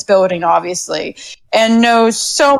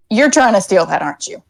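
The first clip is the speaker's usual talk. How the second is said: deadpan; 4 semitones lower than usual. Acted. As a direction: say it with no emotion at all. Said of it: "says in the most deadpan voice".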